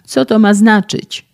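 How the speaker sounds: loud, high injured yell; screaming in pain. A narrator's reading. Injured young man screams at the physicist opening the door, loud high yell. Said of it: "darł się w niebogłosy".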